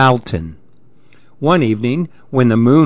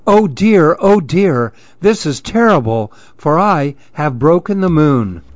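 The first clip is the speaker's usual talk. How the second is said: mild dismay; 3 semitones higher than usual. Acted. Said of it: "He was terrified again".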